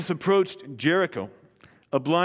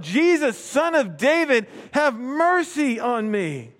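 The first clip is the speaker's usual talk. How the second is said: crying out; 5 semitones higher, slower than usual. Acted. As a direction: beg Jesus for mercy from the roadside. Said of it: "he cried out".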